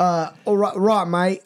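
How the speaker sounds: put-on tentative, half-hearted Australian accent; shaky stab at Australian accent; attempted Australian accent. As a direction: try out an unsure Aussie accent. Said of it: "Try to do an Australian accent".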